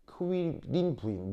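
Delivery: "크윌린" slowly split after "크"; 분리된 크-위 발음. Shown as a demonstration. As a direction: sound out "크윌린" slowly, "크" before "윌린". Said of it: "이걸 빨리 발음하는 거예요". ("크윌린"을 느리게 나눠 발음)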